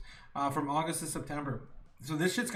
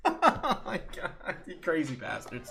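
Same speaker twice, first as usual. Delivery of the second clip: laughing; 3 semitones higher than usual. Real, not acted. Laughing disbelief at chat.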